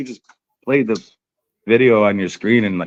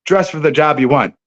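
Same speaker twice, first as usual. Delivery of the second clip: higher, louder teasing call; 5 semitones higher, 3 dB louder than usual. Acted. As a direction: call across the room to get his attention. Calling out to Dan Cooper.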